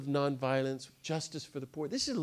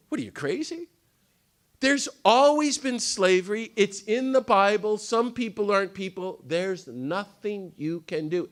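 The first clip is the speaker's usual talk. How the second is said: much higher, mocking voice of the doubters; scoffing critics; 7 semitones higher, 5 dB louder than usual. Critics mocking Garrison, high scornful voice. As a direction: ridicule him like the naysayers did. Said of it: "they said to him".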